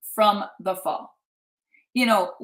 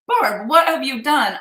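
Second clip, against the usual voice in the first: mock shocked friend; 3 semitones higher, 6 dB louder than usual. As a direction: imitate a friend's alarmed question. Acting out friend's shocked reaction.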